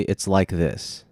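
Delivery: slow, deliberate example; slow example phrase. Shown as a demonstration. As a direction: drag it out as a sample. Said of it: "I don't wanna say".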